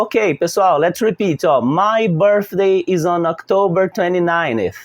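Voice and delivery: slow, clear classroom model sentence; teacher modelling for repetition. Shown as a demonstration. Teacher to pupils before they repeat, slow and clear. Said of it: "eu mesmo falo".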